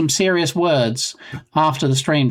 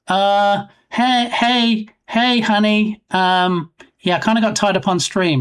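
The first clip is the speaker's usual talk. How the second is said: higher, hesitant, acted excuse; sheepish husband; 6 semitones higher, slower than usual. Streamer imagining excusing himself to his waiting wife, sheepish. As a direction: stall in a raised, sheepish voice.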